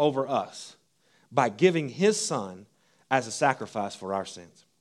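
measured reading of Romans to the congregation; scripture reading. Acted. Reads Romans aloud.

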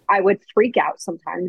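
normal talking voice

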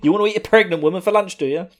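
mock-angry rapid question; pissed off. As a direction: imitate an indignant confrontation. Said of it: "Denji is fucking pissed off".

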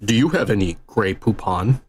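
mock a snooty rich man asking politely; posh ad voice. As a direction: parody of the old mustard ad butler. Posh Grey Poupon ad parody.

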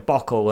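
"bockle" said with a k sound for "bottle"; mum's "bockle", t swapped for k; imitating mum. Mocking his mum's mix-up of T's and K's. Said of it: "she keeps going".

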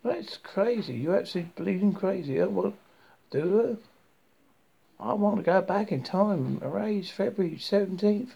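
breathless, panicky gasping words; gulping for air mid-sentence; hyperventilating. Acted. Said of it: "Crap, I'm hyperventilating".

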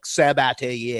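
Sabatier said weird like an American; drawn-out American take on the French name; American pronunciation. Shown as a demonstration. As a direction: say Sabatier in a plain American accent. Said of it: "don't say it weird like an American".

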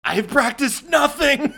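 high, slow, laughing fake-German yell; mock German shout. Hosts mocking the goon's accent, laughing mock shout. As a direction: shout it like an unprepared goon. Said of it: "trying to do a German".

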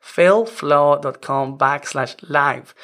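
failflow dot com backslash live spelled out slowly, word by word; slow dictation of a web address; slow, careful repeat. Shown as a demonstration. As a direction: say the address slowly so they can write it down. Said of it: "Let me repeat that".

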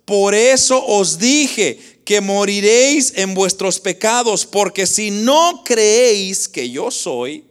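loud, emphatic scripture quote with slow stretches; quoting Christ. Retold or imitated. Preacher quotes Christ's warning to the congregation, loud and emphatic. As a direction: declare the verse forcefully. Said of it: "Mire lo que dijo Cristo".

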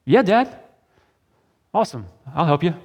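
high, bright-eyed yes; eager agreement. Retold or imitated. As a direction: chirp it up like an eager son. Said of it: "his response is".

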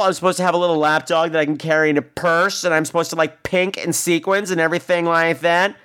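imitating an affronted telling-off, pitch lifting; mock indignant lambasting. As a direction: reel off a sarcastic rebuke. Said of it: "she just lambasted him".

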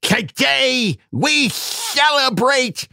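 speech in a nerdy voice; rally the troops, nerd style. Acted. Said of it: "in Wool Dog's nerd voice".

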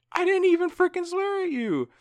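retold shout back at the teacher, high and loud; indignant yell.

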